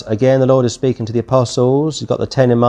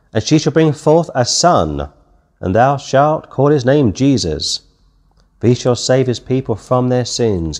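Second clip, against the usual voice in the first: scripture reading. Acted. Reads scripture aloud.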